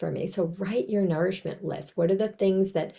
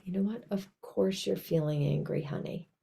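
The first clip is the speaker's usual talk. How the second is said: gentle self-talk; 5 dB quieter than usual. Shown as a demonstration. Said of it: "I hope you notice my tone of voice".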